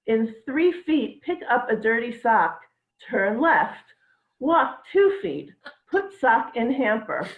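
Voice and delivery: slow, measured navigation-app announcer; mock robotic guidance, slowly; GPS voice. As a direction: read it out like a sat-nav giving directions. Mom Waze navigation voice.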